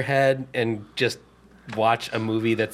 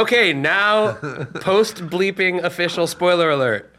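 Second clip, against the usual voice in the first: mock announcement; 5 semitones higher than usual.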